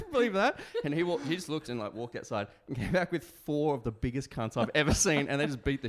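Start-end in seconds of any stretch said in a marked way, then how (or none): 0.1-0.6 put-on English accent. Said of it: "I'm laughing like".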